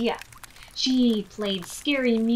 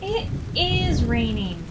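a loud, upset cry; cried out; 3 semitones higher, 6 dB louder than usual. Acted. Hop cries out that the rain has come, loud and upset. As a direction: cry it out in dismay. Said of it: "cried Hop".

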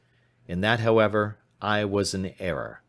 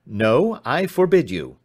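stern; 2 semitones higher, 6 dB louder than usual. Acted. Father forbids police.

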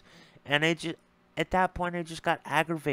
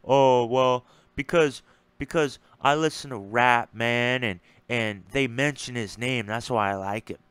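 put-on clueless voice, loud start; mock dumb answer; 3 dB louder than usual. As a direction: play him as a clueless fan. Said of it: "you know what his answer was".

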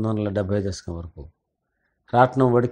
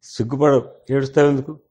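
retold rebuke; 2 semitones higher, 4 dB louder than usual. Jailed man chides a crying relative for tears, retold rebuke. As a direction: imitate a proud reproach, pushing up at the end.

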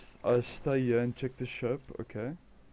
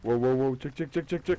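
sudden loud whoa, rising into rapid checks; startled, blurting a warning to the crewmate; real alarmed outburst; excited alarm; 3 semitones higher, 7 dB louder, faster than usual. Real, not acted. Urgent gaming alarm, spotting something.

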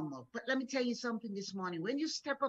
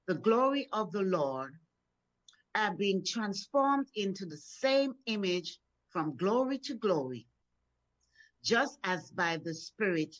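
scripture reading. Acted. Preacher reading scripture to the congregation, measured. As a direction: read the verse out with weight.

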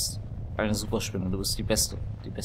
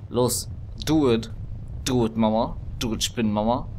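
cheering on; 4 dB louder than usual. Real, not acted. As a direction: egg it on loudly. Urging spider on.

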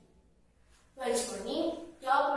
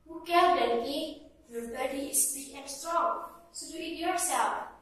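dismissive frog; 3 semitones higher than usual. Acted. Frog refuses to help.

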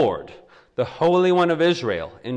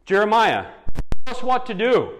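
mock panicked plea; 7 semitones higher, 4 dB louder than usual. Panicked people beg Jeremiah.

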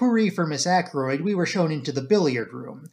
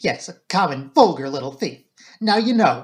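defiant confession; 4 dB louder than usual. Acted. Flora confessing the theft to the inspector, defiant and louder.

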